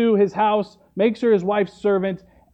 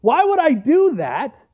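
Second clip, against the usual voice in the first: higher, indignant retold complaint; upset, mock tantrum; 4 semitones higher than usual. Preacher voicing Naaman refusing the Jordan dip, mock upset. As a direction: complain like a mildly hammed-up sulker. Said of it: "he gets so upset".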